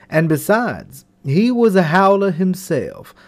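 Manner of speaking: lively storybook reading voice; story narration. A narrator's reading. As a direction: read it like a bedtime tale. Storybook narration read aloud.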